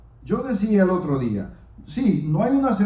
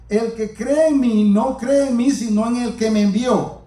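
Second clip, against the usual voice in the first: slow proclaiming; 3 semitones higher, 3 dB louder than usual. Retold or imitated. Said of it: "Jesús clamó y dijo".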